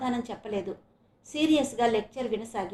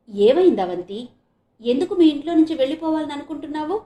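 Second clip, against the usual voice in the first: raised, urgent questions to a friend; loud, concerned questioning that ends on a rise; affectionate concern; 5 semitones higher, 9 dB louder than usual. A narrator's reading. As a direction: ask with caring insistence. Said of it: "ఆప్యాయంగా అడిగింది చరిత".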